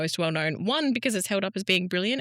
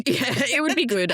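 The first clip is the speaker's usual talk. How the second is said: laughing; 7 semitones higher, 5 dB louder than usual. Real, not acted. Laughing at dramatic bitch remark.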